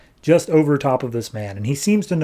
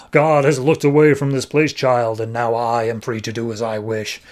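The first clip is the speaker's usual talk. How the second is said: hint of a demon. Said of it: "Burden transforms into a demon".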